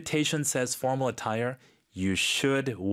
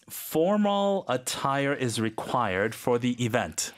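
very slow, each word clear; slow teaching read; much slower than usual. Shown as a demonstration. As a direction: spell it out slowly for learners. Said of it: "model sentence read for learners".

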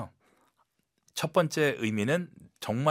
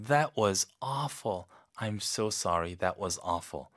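softer, slow and tender, fading at the end; soft sympathy; 3 semitones lower, much slower than usual. Shown as a demonstration. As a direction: That was awful said tenderly with concern. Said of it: "아주 부드럽게".

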